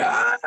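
imitated scream of a frightened little girl. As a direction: give a mock girlish scream of fear. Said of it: "I scream like my sister".

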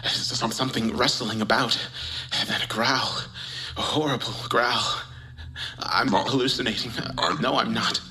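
breathless whispered terror; hushed creeping horror. Acted. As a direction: stammer it out, scared stiff. Terrified after hearing growl.

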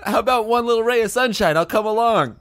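put-on sweet girlfriend voice. Girlfriend acted, high voice.

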